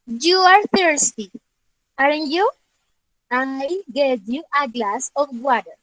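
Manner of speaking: slow, careful English reading; slow read-aloud. Shown as a demonstration. Teacher reading the example to students, slowly. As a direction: read each word out slowly. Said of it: "Nos dice".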